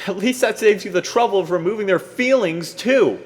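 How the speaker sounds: very high, loud, fast rant; furious tirade. Acted. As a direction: rattle off the accusation in rage.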